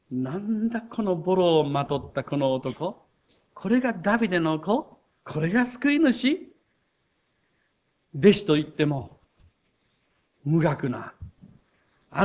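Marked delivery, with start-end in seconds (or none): 0.1-6.5 scornful scholar. Retold or imitated. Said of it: "立法学者から見れば".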